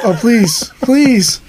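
high, laughing mock begging; half-laughing pleading; laughing plea. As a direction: beg through laughter. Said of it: "And I was like".

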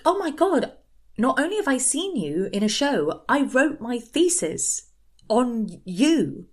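high, excited fangirl gush; gushing fan. Retold or imitated. Shop girl tells Ellie about her thesis, high excited gush.

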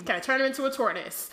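giggling through the question; laughing. Real, not acted. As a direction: laugh while asking. Joking as Harry, laughing.

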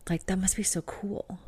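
whispered in awe. Real, not acted. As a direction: breathe it out dreamily. Dreamy aside about being onstage.

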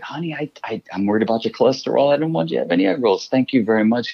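a hint of a fussy wife, fast. Wife tells husband no egg rolls, fussy and quick.

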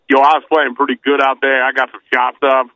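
lightly imitated African American English; casual borrowed Black American athlete accent; Daron Sheffer impression. Guest retells an Israeli player's answer, Black American accent. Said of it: "they don't speak like that in Tel Aviv".

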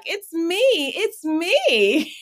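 high, playful pageant-winner voice; pageant queen. Retold or imitated. Waving to photographers like Miss America, playful high voice. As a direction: coo it like waving from a float. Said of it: "my Miss America wave".

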